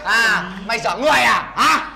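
hammed-up shout at the dazed girl; mock shout. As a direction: yell at her for acting crazy.

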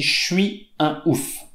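«Je suis» said as «chui», «chui un ouf»; elided fast speech. Shown as a demonstration. Teacher showing the fast spoken form, elided «chui». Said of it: "dans la façon de parler rapide".

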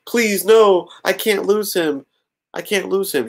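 high, hammed-up pleading; played-up hysterics. Lois pretending she can't lose Superman, played-up hysterics. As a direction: fake hysterical begging in a high voice. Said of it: "Lois is playing up the hysterics".

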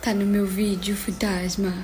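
sussurrado, mais baixo; sussurro de brincadeira. Pretend. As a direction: pergunta cochichada ao fantasma. Mãe entra na brincadeira do fantasma. (mãe cochichando com o filho-fantasma, em sussurro)

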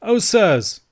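high, loud cry of dismay; dismayed Scots outcry; cried out. A narrator's reading. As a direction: cry out as the shocked old uncle. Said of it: "cried Ebenezer".

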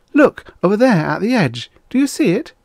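high, loud and urgent; excited call. A narrator's reading. Young woman spotting ruins from the ship, excited and loud. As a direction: grab their attention, pointing it out. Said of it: "Suddenly Nasha jumped".

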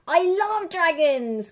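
high, loud happy exclamation; delighted cry. Acted. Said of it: "cries the girl".

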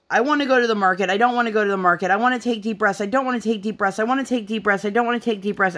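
put-on flip-flop like a cranky toddler; mocking a toddler's indecisive whining; toddler whine. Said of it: "one of those days where she was".

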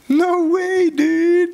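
thrilled outburst to the crowd; excited exclaim. Real, not acted. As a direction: blurt it out in delight. Excited exclamation about his life.

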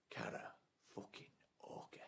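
softly muttered under the breath; muttered disgust. Acted. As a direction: mutter the name with contempt. Muttered then shouted name.

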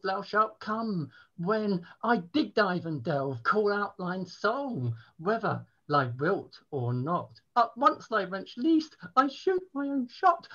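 mock-medieval poem. Lusty lord wooing the wench in a poem, mock-grandly. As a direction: recite it like an overblown bawdy ballad.

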